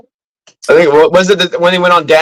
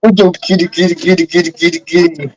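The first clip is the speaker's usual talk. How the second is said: calling a cat; 3 semitones higher than usual. Real, not acted. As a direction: coax the cat over, lilting.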